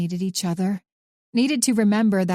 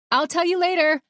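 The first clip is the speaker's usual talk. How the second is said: higher, called back while leaving the room; called over her shoulder; 10 semitones higher than usual. A narrator's reading. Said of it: "she called over her shoulder".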